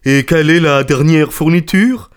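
high, pressing question; triumphant challenge. Acted. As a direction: demand it as if already proven right. Merchant presses his point home.

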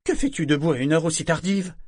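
a hint of a cold mother; lightly voiced stern mother, no warmth; unfriendly tone. A narrator's reading. Mother questioning her daughter up late, coldly. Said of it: "d'un ton sans aménité".

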